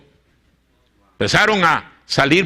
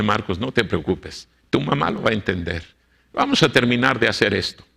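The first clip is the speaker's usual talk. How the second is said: comforting; 3 semitones lower than usual. Retold or imitated. Pastor comforts weeping Marcos.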